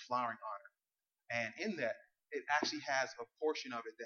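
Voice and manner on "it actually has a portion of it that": fast, rushed half-swallowed phrasing; rushed slip. Real, not acted. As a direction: hurry through it before correcting yourself. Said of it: "I'm sorry".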